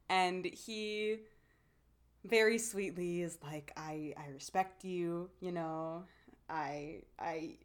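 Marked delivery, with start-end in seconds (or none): 3.8-7.6 soft unvoiced whisper of a shy goodbye; mock whisper, halting and shy; quiet imitation. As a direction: breathe it out timidly, barely voiced. Retelling shy boy's goodbye.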